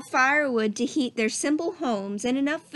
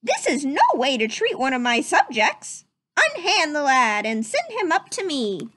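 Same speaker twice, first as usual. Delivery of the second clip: prince calling down; 3 semitones higher than usual. Acted. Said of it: "the prince called down".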